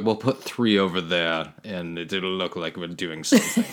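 slow, lightly mocked Russian accent; a weak Russian accent impression. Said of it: "That's my Russian accent".

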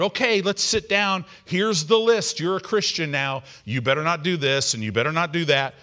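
brisk mock lecture to a new convert; stern rule-giver. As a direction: lay down the rules like a strict mentor. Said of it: "the person who got you saved".

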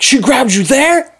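high, incredulous mock question; shocked grandma. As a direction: imitate a grandmother aghast, pitch shooting up.

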